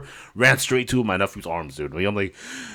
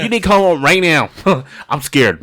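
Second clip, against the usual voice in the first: higher, louder panicked plea with a laugh; mock frightened plea; 6 semitones higher, 5 dB louder than usual. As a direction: beg mom to come home. Retold scared call to mom.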